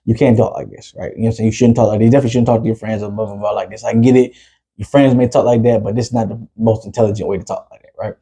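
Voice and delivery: acting out a level-headed talk with his son; calmed-down fatherly talk. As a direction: reason with the kid, settled and low-key. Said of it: "come down and I can talk".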